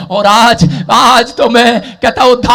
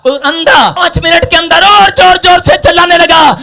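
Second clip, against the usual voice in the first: loud, high-pitched sustained sermon delivery; full-force preaching; 10 semitones higher, 5 dB louder than usual. Acted. Preacher retelling Jericho to the congregation, full-force preaching. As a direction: preach it in a driving, unbroken shout.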